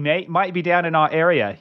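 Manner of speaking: badly faked Aussie accent; mock Australian accent. Host riffing on the wanted article, mock Australian accent. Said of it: "That's my bad Australian accent".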